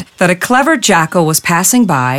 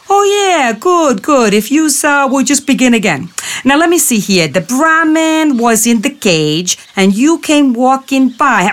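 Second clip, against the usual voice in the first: much higher wise-guy voice; bumbling jackal; 6 semitones higher than usual. Acted. Jackal retelling it wrong, high and bumbling. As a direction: muddle it up on purpose.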